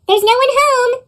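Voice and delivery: put-on boy calling through the door to trolls, high and loud; called out. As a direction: call out to the trolls outside. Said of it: "the boy called out".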